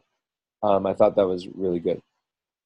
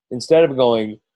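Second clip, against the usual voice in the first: yawning. Real, not acted. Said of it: "ugh, yawning".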